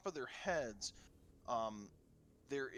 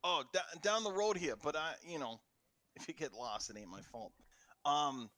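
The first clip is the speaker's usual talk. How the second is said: put-on Jersey accent; 3 semitones higher than usual. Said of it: "all guards are from Jersey".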